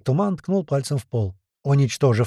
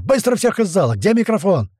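high, raised urgent command; roared order; 8 semitones higher, 4 dB louder than usual. A narrator's reading. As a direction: clear the room at once. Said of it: "взревел Туман". (громкий яростный приказ)

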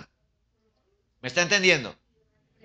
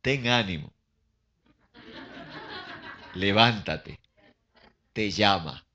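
grudging encouragement; 3 semitones lower, slower than usual. Acted. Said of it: "tuvo que decirle entonces al ciego".

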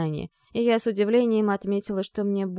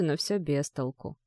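ordinary delivery, nothing marked

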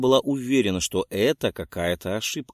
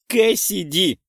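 sharp call; 8 semitones higher, 5 dB louder, slower than usual. A narrator's reading. Witch calls out the culprit.

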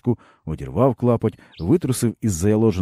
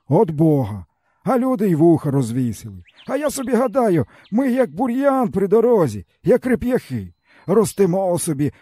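higher, bitter village man's voice; weary peasant man; 12 semitones higher than usual. A narrator's reading. Stepan tells the boy his woes, bitterly. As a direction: speak as a broken old peasant.

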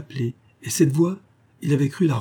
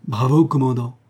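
mild excited cry; a touch of eager cheer; ship's boy cheering his commander, mildly excited; exclaiming; 2 semitones higher, 4 dB louder than usual. Acted. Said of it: "s'écria Will".

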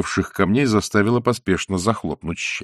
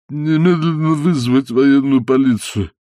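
nasal and indistinct; 6 semitones higher, 3 dB louder than usual. A narrator's reading. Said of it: "невнятно прогнусавил".

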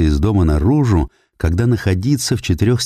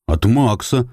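stubborn; 5 semitones higher, slower than usual. Acted. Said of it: "упрямо повторил мальчик".

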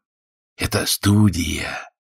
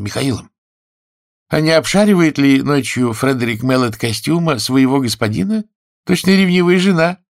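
a lightly voiced young woman, higher, teasing; Fanny's voice; 7 semitones higher, 4 dB louder than usual. A narrator's reading. Fanny doubting Freddie's farm dream, lightly teasing. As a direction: play the sceptical bride, a touch higher.

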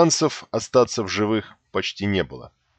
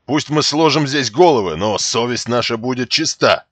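harsh barking commands; 4 semitones higher, 5 dB louder than usual. Acted. Lord's defiant vow.

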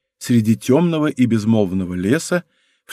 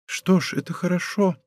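soft and higher, gently humble; meek voice; 5 semitones higher, 6 dB quieter than usual. Acted. A mild, meek acceptance. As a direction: princess answers de Guiche's insult meekly, softer and higher. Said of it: "продолжала принцесса кротким голосом".

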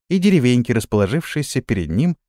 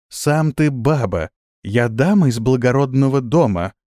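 grande dame. Acted. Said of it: "надменно произнесла Исидора".

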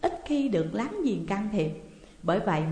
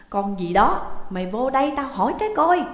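loud, raised-pitch summons; angry yell; 5 semitones higher, 7 dB louder than usual. A narrator's reading. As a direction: holler crossly for someone to come. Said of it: "bà gào to lên". (gào to gọi người)

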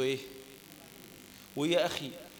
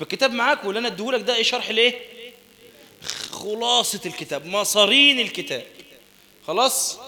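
emphatic teaching; 5 semitones higher, 9 dB louder than usual. Real, not acted. Teacher stresses book summary.

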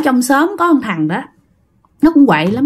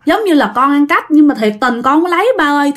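praying to father; 3 semitones higher than usual. Retold or imitated. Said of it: "chị gái mới khấn vái như vậy".

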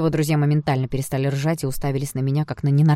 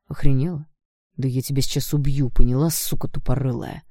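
vicious threat; 5 dB louder than usual. Acted. Blond threatens to kill her.

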